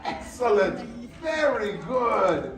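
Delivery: lightly French chef voice; hint of a proud Paris chef. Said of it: "I'm gonna count to three in French".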